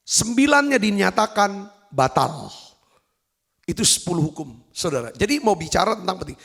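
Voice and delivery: ordinary talk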